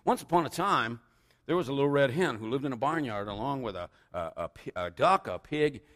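lively read-aloud storytelling; animated picture-book reading; story narration. A narrator's reading. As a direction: read it like a tale for little children. Reads a children's story aloud.

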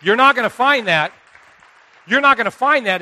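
loud, punchy declaration; emphatic. Real, not acted. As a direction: hit it hard to the crowd. Preacher stressing point to congregation.

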